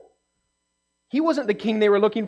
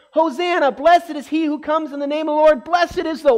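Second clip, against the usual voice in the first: crowd cheering; 6 semitones higher than usual. Retold or imitated. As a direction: proclaim it like a crowd welcoming a king. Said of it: "read the things that the crowd was saying".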